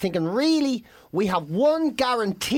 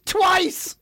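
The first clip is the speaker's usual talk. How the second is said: laughing while telling; 7 semitones higher, much slower than usual. Real, not acted. Laughing retelling of the race.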